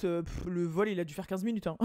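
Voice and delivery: ordinary talk, nothing marked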